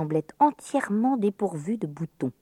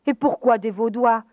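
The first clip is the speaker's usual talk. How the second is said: put-on high, louder outraged girl; indignant; 6 semitones higher, 4 dB louder than usual. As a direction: protest with offended anger. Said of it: "en éprouva une vive colère". (indignation de petite fille)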